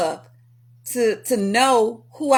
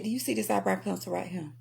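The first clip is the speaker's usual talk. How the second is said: much softer, quick pointed question; quiet stern auntie; 3 semitones lower, 11 dB quieter, faster than usual. Retold or imitated. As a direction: ask it low and knowing.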